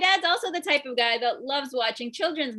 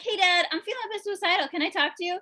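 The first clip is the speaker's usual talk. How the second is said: higher-pitched, acted request; pleading child; 6 semitones higher, faster than usual. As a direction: ask Dad for a moment. Child timidly approaching dad.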